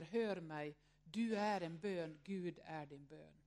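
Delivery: slow, hushed recitation of a hymn; reciting a hymn. Retold or imitated. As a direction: recite the hymn text gently and slowly, like a prayer. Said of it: "Den börjar ju så här". (hon läser psalmtexten långsamt och stilla, som en bön)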